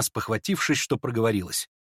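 plain reading voice

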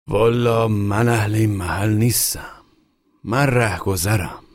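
lightly voiced passer-by. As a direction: shrug it off, not my business. Pipe smoker answers.

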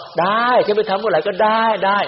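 high, sulky acted yes; grudging mock agreement. Monk mimicking a disciple who grudgingly agrees. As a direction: voice the worker who gives in with a sigh. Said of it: "เป็นนั่งคิดเอาอะ".

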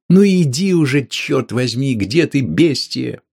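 man shouts at the door, exasperated; shouting. Acted. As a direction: yell for her to come. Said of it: "он крикнул".

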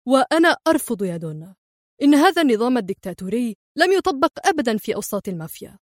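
a touch of fast defiant anger; equal fury. Acted. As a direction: refuse her, heated and quick. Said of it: "قاطعها في ثورة مماثلة".

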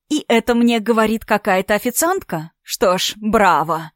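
hammed-up mock praise; feigned admiration. Nastya sneering at the waitress, fake admiring bravo. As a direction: fake delight to belittle her. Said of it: "наигранно восхитилась".

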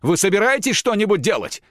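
high, loud call across the room; shouted across room. Acted. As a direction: yell it at someone far away. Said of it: "прокричал Платон".

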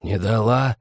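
stretched-out vowels; drawling lad; drawled question. A narrator's reading. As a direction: draw the question out lazily. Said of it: "в растяжку спросил кто-то за углом".

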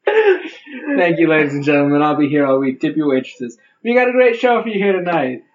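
hammed-up stand-up comic sign-off; brash vaudeville comic. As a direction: play it like a cheesy club comic. Comedian closing bit after pun.

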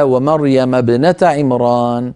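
slow recited ومريم ابنة عمران; measured tajwid reading; Quran recitation. Shown as a demonstration. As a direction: recite the verse slowly and evenly. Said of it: "قوله تعالى".

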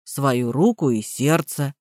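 dull parroting. A narrator's reading. Gardener echoes the vow low and soft. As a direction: mechanical repeat, slow.

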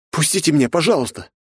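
high, desperate begging; frightened boy pleading for his life. Acted. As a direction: beg to be let go, voice up high. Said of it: "взмолился Андре".

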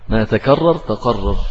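تكرر with a clear kaf, تقرر with a deep qaf, said slowly; slow, careful contrast of kaf and qaf; kaf then qaf. Shown as a demonstration. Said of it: "الأولى بالكاف والثانية بالقاف".

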